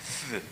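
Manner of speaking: soft "쓰" with the tongue pushed out between the teeth; th sound demo. Shown as a demonstration. Teacher demonstrates the th in thank to students. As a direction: breathe "쓰" out like an English th. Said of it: "혀가 쑥 나옵니다".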